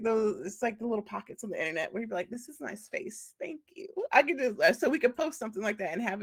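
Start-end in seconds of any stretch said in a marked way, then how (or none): 2.3-3.9 mock polite dismissal. Claiming safe space, soft high.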